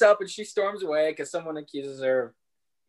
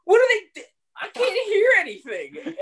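annoyed husband complaining. Retold or imitated. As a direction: complain you can't hear. Imitating annoyed Tony.

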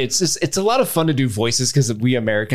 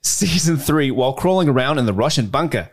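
put-on Australian accent; 2 semitones higher than usual. Podcast host reading a listener's email from Perth, Australian accent. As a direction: read it out in your best Australian accent. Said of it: "do this in my best Australian accent".

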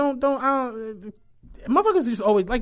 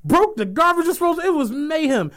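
laughing; 6 semitones higher than usual. Real, not acted. Laughing recalling wild party.

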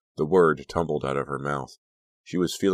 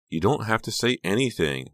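higher-pitched, overbearing comforter; gushing, solicitous friend; 7 semitones higher, 3 dB louder than usual. A narrator's reading. Honey hugging Becca and consoling her, gushing. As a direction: smother her with sympathy.

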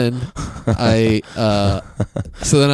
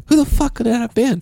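mock bafflement; 14 semitones higher than usual. His own puzzled thought voiced.

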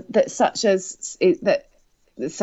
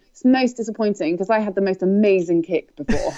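laughing through tears; 3 semitones higher than usual. Real, not acted. Regret over her lost kick.

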